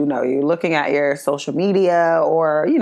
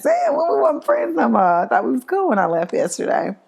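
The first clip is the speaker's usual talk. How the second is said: surprised, hurt quote; 5 semitones higher than usual. Retold or imitated.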